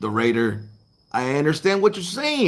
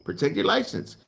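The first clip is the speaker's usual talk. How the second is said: soft echo; 7 dB quieter than usual. Shown as a demonstration. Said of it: "The wise words of Travis Kennedy".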